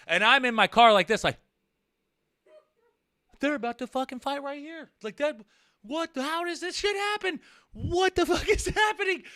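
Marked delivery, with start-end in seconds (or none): 3.4-9.2 high, laughing disbelief; can't believe what you're seeing; excited disbelief. Real, not acted. Watching two drivers square off, laughing in high disbelief.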